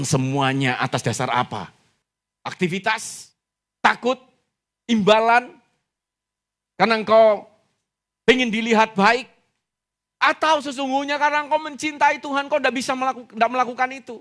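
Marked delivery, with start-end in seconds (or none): 2.4-14.2 high, forceful preaching questions; impassioned challenge. Real, not acted. Preacher challenges congregation on why they serve, impassioned. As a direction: put each motive to them in a raised voice.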